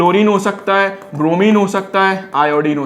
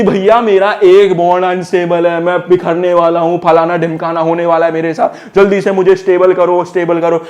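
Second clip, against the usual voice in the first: panicking carbon atom. Acted. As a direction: plead like an atom falling apart, begging to be stabilised. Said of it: "अब carbon चिल्ला रहा है, फड़फड़ा रहा है".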